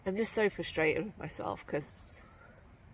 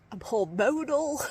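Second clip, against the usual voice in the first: higher, louder, half-laughing self-pity; mock whiny complaint; 7 semitones higher, 9 dB louder than usual. Hiker retelling her excuses to the talker, mock whiny. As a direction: whine it like a tired kid. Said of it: "And I just was like".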